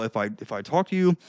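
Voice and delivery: low, dull unsmiling talk; unsmiling, face down. Shown as a demonstration. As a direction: talk with your face down, no smile. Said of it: "like this, I mean, like, even with my face".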